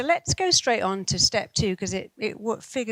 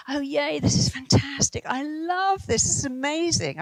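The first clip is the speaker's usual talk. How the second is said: high, bright forced enthusiasm, pitched up; fake cheer; 7 semitones higher than usual. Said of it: "I really didn't".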